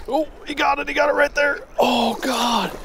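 sudden high excited yell; excited shout. Real, not acted. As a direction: shout with real joy as the fish hits. Trout strikes the lure live.

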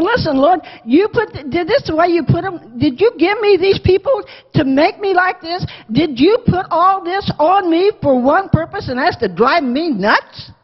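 mock indignant questioning; exasperated complaint. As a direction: act out a fed-up prophet confronting God. Acts Moses complaining to the Lord.

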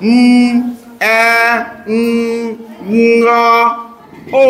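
"উম, এ, উম, উম, ও" drawn out sound by sound; sounded out while writing. Shown as a demonstration. Teacher writing an example word, sounding "উম, এ, উম, উম, ও" one by one. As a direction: hum each sound of mango separately, with pauses. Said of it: "একটা উদাহরণ আমি লিখছি".

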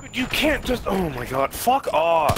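raging gamer. Real, not acted. Angry at teammate stealing kill.

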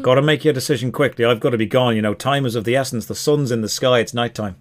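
put-on hurried elf with an Irish accent. Elf rushes his buyer before leaving, Irish accent. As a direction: press for a decision in an Irish brogue. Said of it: "the elf is Irish".

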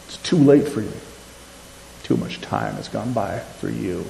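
a hint of a taunting accuser; lightly voiced accuser taunting. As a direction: sneer the lies at the listener. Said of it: "that voice that says".

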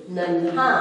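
नन्हा with a tiny second न, nan-haa; very short न. Shown as a demonstration. Teacher modelling the short letter, half-न pronunciation. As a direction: join न to हा at once in नन्हा. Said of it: "एकदम छोटी".

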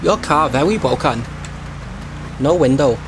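hammed-up Chinese-style accent in broken English; mock broken-English accent. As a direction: play a delivery driver with a crude Chinese accent. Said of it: "sorry about the accent".

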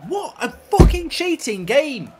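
angry outburst. Real, not acted. Angry at the cheating game.

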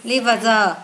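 "Liver giờ" with the ending sounded out as "giờ"; teacher's demo of "Liver giờ", z not s; voiced Z ending. Shown as a demonstration. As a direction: end "Liver giờ" on a buzzing z. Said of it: "Rồi lại phát âm sờ S nữa".

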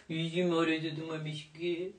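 soft, doting coo. Real, not acted. Woman gushing over her little mice, baby talk. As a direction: melt over your little darlings. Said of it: "už jsem se zase rozněžnila".

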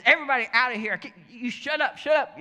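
high, loud acted outburst; imitated furious shouting; ticked-off yell. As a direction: yell at them all as the angry boss. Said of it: "He gets ticked off".

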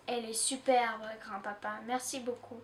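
hushed, shrinking little voice; tiny voice. Acted. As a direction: barely let the thanks out. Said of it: "d'une voix minuscule".

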